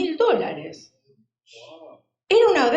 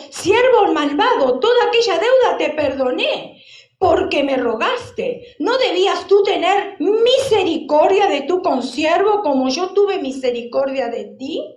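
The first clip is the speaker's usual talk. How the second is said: louder, stern rebuke of the wicked servant; angry master; 3 semitones higher, 4 dB louder than usual. Acted. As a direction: scold him as the offended lord. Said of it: "su señor enojado".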